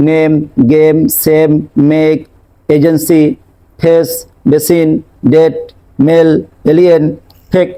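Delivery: নেম, গেম, সেম with a short pure "e"; common mispronunciation. Shown as a demonstration. Showing learners how we usually say them, common mispronunciation with plain "e". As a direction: say নেম, ডেট, ফেক with no glide. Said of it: "নিশ্চয়ই আমরা এইভাবে করি".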